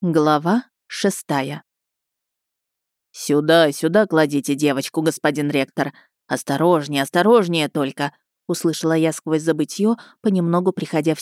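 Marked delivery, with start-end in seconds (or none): 3.1-8.1 fussing healer, a touch lower; a hint of a busy old doctor. Healer voiced by reader. (голос хлопотливого лекаря)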